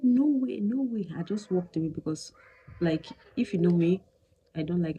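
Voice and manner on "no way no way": higher and louder "no way"; emphatic denial. Retold or imitated. Wife imitating husband's flat refusal, louder. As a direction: insist hard, quoting him. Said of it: "He said".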